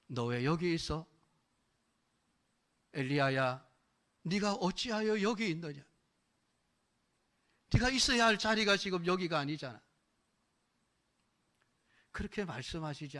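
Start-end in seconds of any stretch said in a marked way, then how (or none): 0.1-9.8 God calling Elijah. Retold or imitated. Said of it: "하나님이 과연 뭐라고 하실까요".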